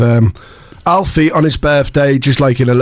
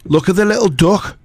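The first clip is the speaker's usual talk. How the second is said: put-on Scouse accent; 5 semitones higher than usual. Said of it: "Now try and picture a person from Liverpool".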